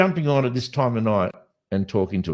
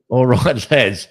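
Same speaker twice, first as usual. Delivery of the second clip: cheeky northern English "All right, lads", loud and bouncy; mock English accent; 2 semitones higher, 8 dB louder, slower than usual. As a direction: put on a laddish English accent, louder. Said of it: "He's English".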